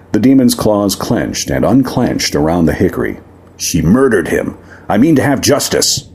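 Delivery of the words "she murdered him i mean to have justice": cold demon demanding justice; demon prince voice. Acted. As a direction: voice the demon prince, set and grim.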